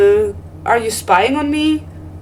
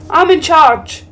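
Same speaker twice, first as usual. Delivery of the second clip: mock angry; 4 semitones higher, slower than usual. Real, not acted. Asserting authority, getting angry.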